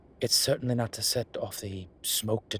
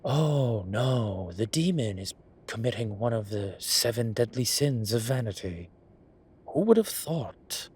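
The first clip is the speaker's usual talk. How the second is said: mock horror; 4 dB louder than usual. Mocking listener's reaction.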